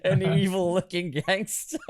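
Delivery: high, laughing reread of the line; can't get through it for giggling. Acted.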